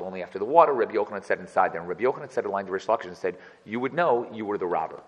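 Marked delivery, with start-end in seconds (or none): 3.6-5.0 mild sneering put-down read; mocking jab. Shown as a demonstration. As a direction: say it like a teasing insult. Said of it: "the way I just said it sounds horrible".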